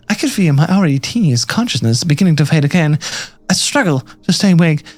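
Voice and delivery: dramatic narration fading at the end; story narration. Acted. Captive narrating a blackout, dramatic read trailing to a whisper. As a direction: narrate steadily, then let the last words drop away. Reads game narration of fainting.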